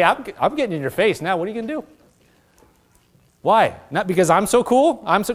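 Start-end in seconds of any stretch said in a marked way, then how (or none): 0.0-1.8 mock taunt. Shown as a demonstration.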